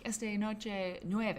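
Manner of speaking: Esta noche nueve spoken slowly and carefully; slow careful Spanish. Retold or imitated. Answering the custodian slowly in simple Spanish. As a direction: spell it out slowly for a learner. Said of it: "And I'm like".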